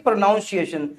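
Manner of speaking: प्रोनाउंसिएशन said pro-NOUN-see-ay-shun; common mispronunciation. Shown as a demonstration. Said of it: "ज्यादातर लोग इसे ... बुलाते हैं कि". (प्रोनाउंसिएशन में "नाउन" बोलें)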